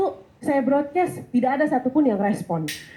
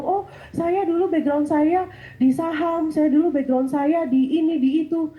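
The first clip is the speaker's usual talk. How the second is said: higher, drawn-out mimicry of show-offs; lightly mocking other candidates' self-introductions; imitating boastful interviewees; 4 semitones higher, slower than usual. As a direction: recite credentials slowly, pitched up. Mimics interviewees listing impressive backgrounds.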